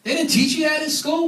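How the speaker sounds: high-pitched, scornful disbelief, imitated; mock put-down. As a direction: act out someone belittling a clueless friend. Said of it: "kinda put me down and said".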